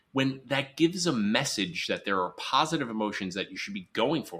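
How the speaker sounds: ordinary delivery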